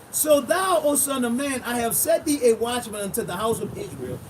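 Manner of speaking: loud, emphatic preacher reading scripture; forceful, deliberate Bible reading. Acted. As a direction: proclaim the verse, building to the last word. Reads scripture aloud in preaching style.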